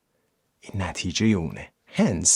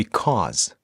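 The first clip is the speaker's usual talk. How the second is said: Because with the weight on CAUSE; stress on second syllable. Shown as a demonstration. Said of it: "استرسش رو دقت بکنید".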